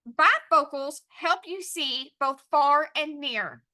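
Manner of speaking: slow, clear reading in connected phrases; sentence dictation. Shown as a demonstration. Teacher announcing the sentence, measured dictation. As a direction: read it out slowly for writing down. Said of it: "our sentence is going to be".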